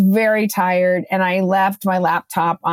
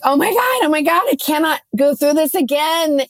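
mock panicked wail, high and fast; retold panic; 6 semitones higher than usual. After landing, to herself: high panicked wail. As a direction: replay the panic at the lost passwords, high-pitched. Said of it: "like, panicking".

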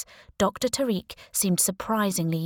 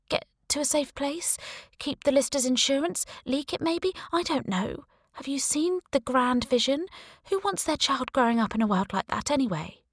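put-on higher-pitched young woman, defiant; a raised, pleading woman's voice; Sarah's voice; 7 semitones higher than usual. Sarah explains herself.

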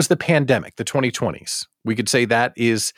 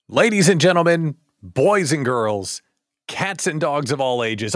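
showman announcement. Pretend. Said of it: "let's start the show".

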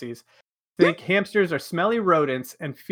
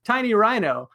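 put-on New York accent; 5 semitones higher than usual. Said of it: "in my best New York accent".

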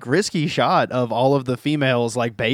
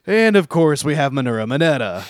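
retold reluctant sigh; 2 semitones higher, 4 dB louder than usual. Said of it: "takes a deep breath and sighs".

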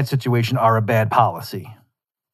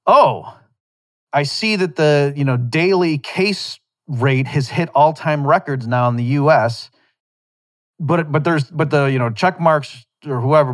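higher-pitched needling imitation of a skeptic; mock-incredulous retort; 4 semitones higher than usual. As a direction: play a skeptic pointedly needling the other side. Acting out a needling anti-mask reply.

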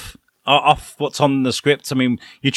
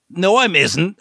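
put-on raised drunk Fry line; mock drunk Fry, a bit higher; town drunk; 5 semitones higher, slower than usual. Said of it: "And they're like".

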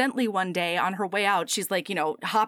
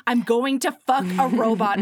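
louder, emphatic quoted declaration; 4 dB louder than usual. Retold or imitated. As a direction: say it up for the back row. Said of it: "A little bit louder for the ones in the back".

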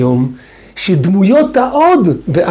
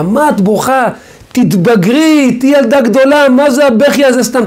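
put-on raised, impatient scolding of a little girl; scolding a crying child; 6 semitones higher than usual. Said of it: "הייתי כועס עליה". (נזיפה כועסת בילדה בוכה)

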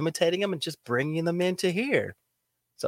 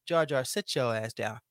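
stern Jedi voice; 4 semitones lower, 7 dB quieter than usual. Shown as a demonstration. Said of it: "Star Wars".

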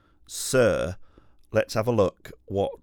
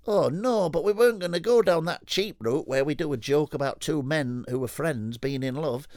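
excited rocker mate; 6 semitones higher than usual. Acted. Rocker telling his mate who they remind him of, high and excited. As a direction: gush like a rock dude who just had an idea. Acted dialogue continues.

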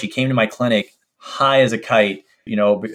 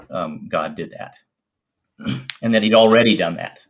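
choked up; 4 semitones lower than usual. Real, not acted. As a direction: voice choked up with emotion. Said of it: "I get a little choked up".

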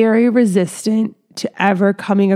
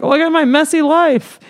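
mock oversharer; 7 semitones higher than usual. To the listener, mocking herself as a rambling oversharer, high and hammed-up. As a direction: send up her own messy-life rambling. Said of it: "being like".

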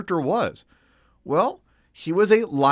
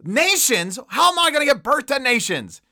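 high, dramatic mock despair; melodramatic; 8 semitones higher than usual. Preacher hamming up Rebekah's lament, melodramatic. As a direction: wail it like a tragic heroine. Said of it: "I'm being maybe a little melodramatic".

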